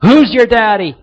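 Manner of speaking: loud proud shout from the sidelines; cheering his quarterback son, loud proud yell. Retold or imitated. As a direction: yell it like a proud dad at a football game. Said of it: "I would be on the sidelines yelling".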